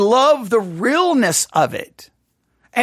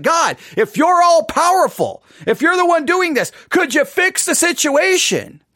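exasperated cry to God; 5 semitones higher than usual. Retold or imitated. Preacher voicing his complaint to God, exasperated raised plea. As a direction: throw the question up at heaven in frustration. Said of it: "Sometimes I'm like".

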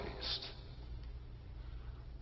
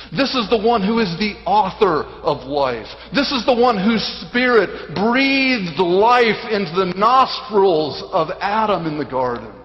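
raised, forceful sermon delivery; emphatic preaching; 3 semitones higher than usual. Real, not acted. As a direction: proclaim it with weighty emphasis. Preacher expounds to congregation.

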